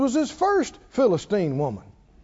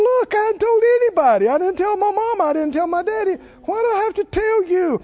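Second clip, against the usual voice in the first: exasperated Samson; 8 semitones higher, 3 dB louder, faster than usual. Retold or imitated.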